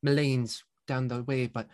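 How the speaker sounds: lightly voiced busy innkeeper; kindly innkeeper. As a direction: innkeeper politely explaining whose goats they are.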